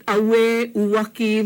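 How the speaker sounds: "Away" as ah-weh, "Uwaki" as oo-wah-kee; W glides. Shown as a demonstration. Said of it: "those are definitely W glides".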